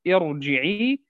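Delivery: ارجعي with a thick ra, rising end; heavy ra. Shown as a demonstration. Teacher repeats the word, heavy ra. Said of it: "الراء تفخم".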